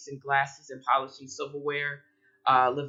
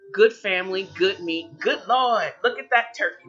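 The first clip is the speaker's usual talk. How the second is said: mock prayer; 4 semitones higher, 6 dB louder than usual. Mock prayer turns to turkey.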